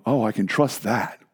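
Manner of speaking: low, soft and slow; quiet relief. Acted. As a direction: let trust settle in quietly. Voicing a sailor hearing the foghorn.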